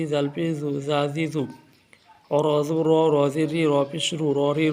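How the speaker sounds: sing-song teacher drilling each syllable; steady rhythmic Qur'an primer recitation for beginners. Shown as a demonstration. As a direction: chant the letters like a classroom lesson. Teacher chants letter-vowel drill.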